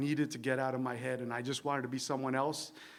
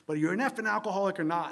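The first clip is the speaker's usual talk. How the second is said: mild mock yell, quick and higher; retold yelling; 4 semitones higher, faster than usual. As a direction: imitate a pushy old-timer demanding an answer. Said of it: "Please stop yelling at me".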